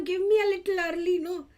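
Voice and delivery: lightly acted plea to a colleague; retelling own request. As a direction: ask nicely, a touch pleading. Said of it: "So I tell him".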